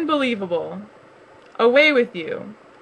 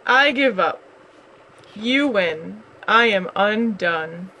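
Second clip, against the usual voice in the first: mock weeping; 2 semitones lower than usual. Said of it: "Bear fell to the floor and wept".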